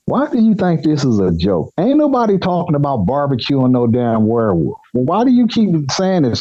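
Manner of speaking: retold indignation at being joked with; exasperated. Employee to boss about barbecuing a werewolf, exasperated. Protests that it is no joke.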